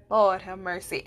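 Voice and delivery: laughs out a low exasperated Lord have mercy; laughing exasperation. Real, not acted. Vlogger laughing at her own short fuse, Lord have mercy. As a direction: give up with a laugh, low and quiet.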